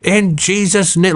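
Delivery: high, drawn-out preacher's command; mock a confident exorcist, high and slow; imitated confident command. Pastor showing the confidence he lacked, high imitated command. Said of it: "like, the confident".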